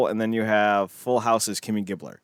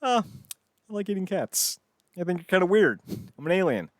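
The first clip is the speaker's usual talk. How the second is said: high-pitched puppet alien voice; lightly voiced sitcom alien; Alf the alien; 9 semitones higher, faster than usual. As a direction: chat in a raised comic puppet pitch. Voices Alf in imagined dialogue.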